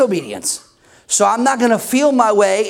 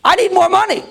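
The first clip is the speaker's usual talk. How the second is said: higher-pitched, hammed-up demanding complaint; mock mad; 5 semitones higher than usual. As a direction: act out a needy plea to God, drawing out the wants. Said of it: "talk like that".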